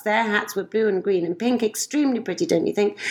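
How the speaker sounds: lilting rhymed storybook reading; reading verse aloud. Acted. Mother reading a rhyming poem to a friend, lilting. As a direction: read the couplets to a child with a gentle bounce.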